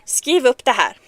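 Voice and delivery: loud, dramatic Mushu shaming chant; mock Swedish curse. Streamer curses the game character, loud mock Swedish curse. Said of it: "it's the Mulan speech of Mushu".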